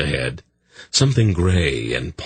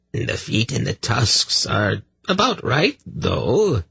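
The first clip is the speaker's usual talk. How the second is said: snapped; 6 semitones higher, slower than usual. Acted. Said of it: "the voice in the woods snapped".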